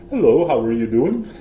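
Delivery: a clumsy try at a posh British hello; bad British accent. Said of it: "that's not actually a very good British accent".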